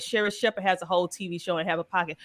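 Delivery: normal talking voice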